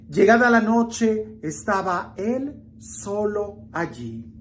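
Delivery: measured reading with long pauses; solemn gospel reading. A narrator's reading. Preacher reading the gospel to the faithful, solemn and measured. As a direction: read scripture aloud, phrase by weighted phrase. Reads the gospel passage aloud.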